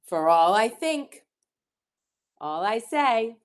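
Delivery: slow, measured rhyming storybook read; reading to children. Acted. Teacher reads rhyming picture book to children, slowly. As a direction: lean on key words, pausing between phrases.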